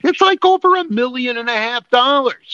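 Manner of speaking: high-pitched, outraged exclamation; angry disbelief. Real, not acted. Host translating the price for co-host, angry disbelief. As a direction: blurt it out, outraged at the sum. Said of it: "we're really not this angry".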